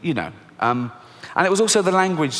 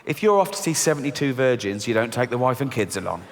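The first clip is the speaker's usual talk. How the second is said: calm realisation; 4 semitones lower than usual. Acted. Sudden realisation, deflated.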